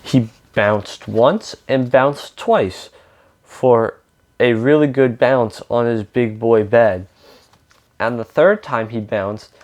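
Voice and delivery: lively read-aloud with lightly acted dialogue; storybook reading with emphatic openings; picture-book narration. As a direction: read a story to children, animated.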